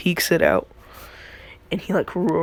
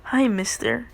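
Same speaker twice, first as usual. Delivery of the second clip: put-on sweet little kid; 5 semitones higher than usual. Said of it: "went from".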